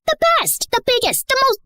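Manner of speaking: high, playful mock praise; mock teasing. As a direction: tease her with sing-song flattery. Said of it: "Wait, are you teasing me?".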